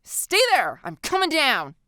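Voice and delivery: loud, high urgent call. A narrator's reading. Girl calling down to visitor, urgent. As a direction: call down to someone below.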